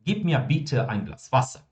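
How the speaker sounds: measured, polite asking; polite request. Shown as a demonstration. Teacher contrasting a courteous request for water with an order, polite. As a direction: ask courteously, without any command in the voice. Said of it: "mais educado".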